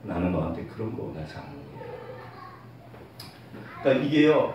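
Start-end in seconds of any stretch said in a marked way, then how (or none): 0.0-1.7 low, soft, tender reply; God's gentle voice. Acted. God answering the weary believer, gentle. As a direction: speak quietly and lower, as God consoling. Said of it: "제가 하나님을 만났을 때".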